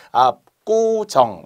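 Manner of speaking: 압구정 with a tense kk, "ap-kku-jeong"; tensed consonant. Shown as a demonstration. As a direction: say 압구정 with the 구 hardened to 꾸. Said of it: "원래 이렇게 된 소리가 나야".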